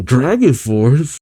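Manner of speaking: slow, stretched mock disbelief; imitated freak-out, lightly played; Natsu freaking out. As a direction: draw it out as a startled question. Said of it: "Natsu freaks out saying".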